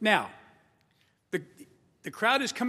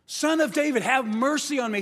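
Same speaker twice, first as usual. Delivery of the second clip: louder, higher plea across the crowd; calling out; 4 semitones higher, 3 dB louder than usual. Retold or imitated. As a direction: cry out for mercy over the crowd. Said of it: "He called out again".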